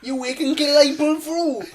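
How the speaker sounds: high, loud, slow daft voice; deluded patient, stubborn hope. Acted. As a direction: draw it out as a plucky simpleton.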